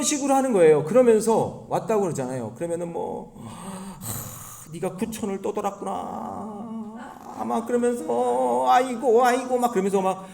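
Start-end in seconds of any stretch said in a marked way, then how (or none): 3.4-6.9 soft sigh into high, drawn-out wail; tearful mock shaman. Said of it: "눈물 흘리면서 생쇼를". 8.7-9.6 high, showy mock lament; fake wailing. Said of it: "눈물 흘리면서 생쇼를".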